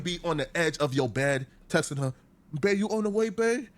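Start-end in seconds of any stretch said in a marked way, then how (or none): 2.6-3.7 higher, needy questioning in mockery; mock eager pleading. Mocking a man texting from his bed, eager pleading. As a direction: lift each "babe" like an eager plea.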